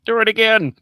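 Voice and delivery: high, loud mock demand; buddy's heckling yell. Imitating buddy demanding another squirrel, high loud heckle. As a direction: yell it gleefully high, egging her on. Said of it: "my buddy goes".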